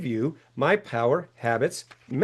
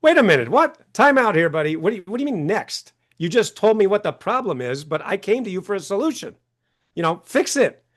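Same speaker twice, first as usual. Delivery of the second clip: indignant patient; 4 semitones higher than usual. Retold or imitated. Patient protesting to the dentist, mock indignation. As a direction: protest like a patient who got short-changed. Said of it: "And you're like".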